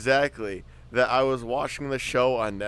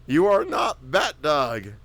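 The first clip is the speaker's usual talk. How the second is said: slow, louder scold; scolding owner; 5 semitones higher, 6 dB louder, slower than usual. Retold or imitated. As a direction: tell the dog off firmly. Owner scolding dog in meme.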